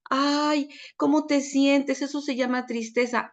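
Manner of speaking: validating mom. Retold or imitated. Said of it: "en vez de validarlo y decirle".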